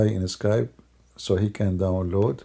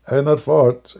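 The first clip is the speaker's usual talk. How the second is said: laughing; 3 semitones higher, 4 dB louder, slower than usual. Real, not acted. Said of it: "I'm just yawning".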